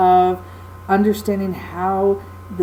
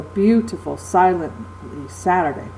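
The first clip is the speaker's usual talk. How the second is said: beautiful, silently, Saturday, stress on each opening syllable; dactylic rhythm. Shown as a demonstration. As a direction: beat out strong-weak-weak on beautiful, silently, Saturday. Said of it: "that's accented by two unaccented".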